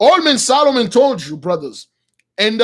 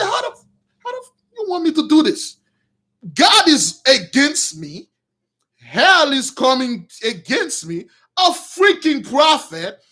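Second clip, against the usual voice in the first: raised-pitch, exasperated Saul in a rage; angry; 4 semitones higher than usual. Acted. Saul protesting that God is against him, angry. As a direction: act out an angry, protesting king. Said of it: "He, he was angry".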